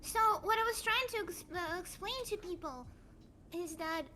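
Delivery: winded, short of breath. Acted. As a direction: speak like you're out of breath. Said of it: "I'm a little winded".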